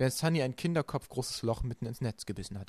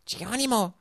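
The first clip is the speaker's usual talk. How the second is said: high, loud jumping shout; daredevil cry; 10 semitones higher, 5 dB louder than usual. A narrator's reading. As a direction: yell it as she leaps. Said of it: "rief Sunny". (lauter Sprungruf)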